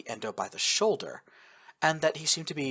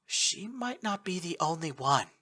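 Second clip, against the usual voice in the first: groaned; 5 semitones higher, 6 dB quieter than usual. A narrator's reading. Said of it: "Yukiko groaned".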